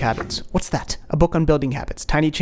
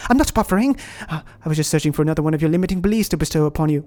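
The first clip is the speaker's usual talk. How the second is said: fake British accent; 4 dB quieter, faster than usual. Inner critic denying he was buffering, fake British accent. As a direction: recover huffily in a put-on British accent. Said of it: "your fake British accent".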